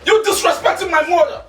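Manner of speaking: angry scolding. Acted. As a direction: tell her off for insulting your mother. Husband defends his mother angrily.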